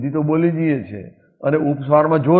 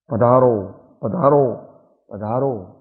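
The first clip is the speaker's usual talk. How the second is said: heartfelt welcome; 4 semitones lower, slower than usual. Shown as a demonstration. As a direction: pour feeling into each પધારો. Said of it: "ભાવથી બોલવું". (ભાવથી પધારો કહેવું)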